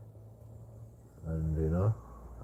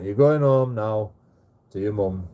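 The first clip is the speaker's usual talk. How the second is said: stern scolding; 6 dB louder than usual. Retold or imitated. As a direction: spell it out angrily to a child. Scolding son, carrying him home.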